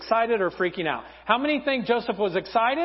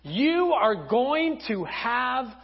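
angel announcement; slower than usual. Acted. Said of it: "An angel of the Lord comes to her and says".

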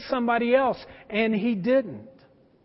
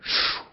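hushing shh. Retold or imitated. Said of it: "pulls his hood back and goes".

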